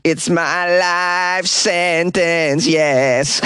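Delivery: put-on slow, drawn-out Russian accent; mock Russian accent. Host parodying a singer as a Russian prisoner in a Russian accent. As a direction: stretch it slowly in a Russian accent. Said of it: "with a Russian accent".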